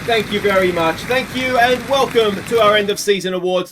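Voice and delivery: bow to imaginary applause; mock host thanking crowd. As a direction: pretend gracious thanks to the audience, lightly played.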